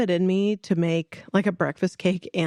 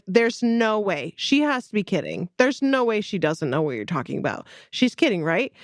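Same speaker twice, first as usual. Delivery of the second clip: mock disbelief. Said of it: "Brent's freaking out".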